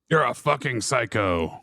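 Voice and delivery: a hint of a menacing movie villain, slowed down; Liam Neeson impression. Cohost reads a film line, sliding into a mild Liam Neeson voice. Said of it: "Why did he turn into Liam Neeson there?".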